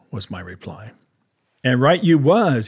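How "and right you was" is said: a touch of an eager cry; cried out. Acted. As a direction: call it out eagerly. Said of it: "he cried".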